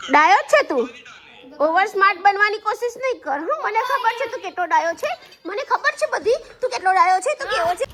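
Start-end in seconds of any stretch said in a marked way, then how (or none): 1.7-7.9 higher-pitched telling-off; scolding. Real, not acted. Mother warning her son not to act oversmart, scolding. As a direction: scold him in a raised pitch.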